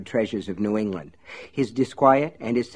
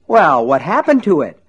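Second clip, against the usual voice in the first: raised, eager cry; exclaiming; 5 semitones higher, 7 dB louder than usual. Acted. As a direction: call it out eagerly. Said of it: "Mister Gaunt cried".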